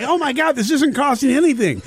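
mock delight. Mock tourist thrilled by free stuff.

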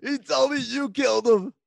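anguished accusation climbing high; acted young hero. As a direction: play the wronged son, pitch rising. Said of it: "He says".

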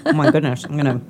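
dry mouth from brownie; mouth full. Real, not acted. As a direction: talk through a mouthful. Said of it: "should have brought some water".

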